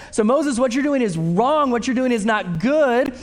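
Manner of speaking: preacher voicing a blunt rebuke; blunt truth. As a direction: tell him straight he's wrong. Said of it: "The truth would be".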